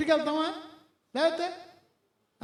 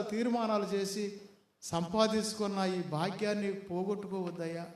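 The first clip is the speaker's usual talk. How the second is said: God pleading; 3 dB louder than usual. Retold or imitated. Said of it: "అని చెప్తున్నాడు దేవుడు".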